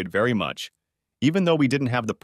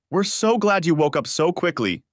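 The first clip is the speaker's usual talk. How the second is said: purring; 7 semitones higher than usual. A narrator's reading. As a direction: coo it like a purr. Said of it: "she purred".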